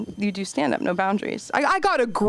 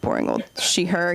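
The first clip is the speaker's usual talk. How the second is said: low, flat dull voice; mock boring drone; 3 semitones lower than usual. Comic insisting on her pronouns, low dull drone. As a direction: sound as dull as possible. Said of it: "I had to be like".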